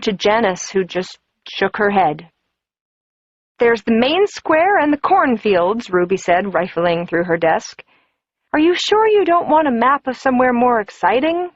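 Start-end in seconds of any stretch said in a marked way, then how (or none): 3.6-5.9 prying office gossip, pitched up; Ruby's voice, higher. Acted. Ruby voiced. 8.5-11.5 prying office gossip, pitched up; Ruby's voice, higher. Acted. Ruby voiced.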